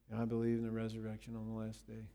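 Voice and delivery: quick, dutiful creed-reciting monotone; rote recitation. Retold or imitated. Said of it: "the way about half of you recite the Nicene Creed".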